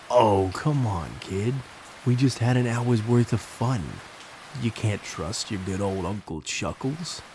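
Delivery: put-on a clown's New York accent, wheedling. Clown talking the suspicious boy round, in a New York accent. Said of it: "in his thick New York accent".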